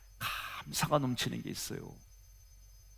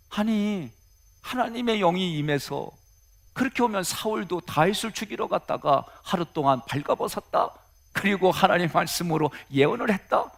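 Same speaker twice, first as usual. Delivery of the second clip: higher-pitched, questioning disbelief; puzzled questioning; 6 semitones higher than usual. Acted. Preacher puzzling aloud over the story of Saul, questioning and higher.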